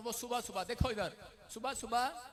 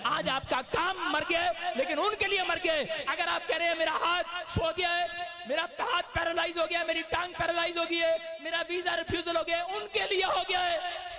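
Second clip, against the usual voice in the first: high, loud preaching cry; shouted sermon climax; fiery preaching; 8 semitones higher, 7 dB louder than usual. Acted. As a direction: preach it at full force to the church. Preaching at full force.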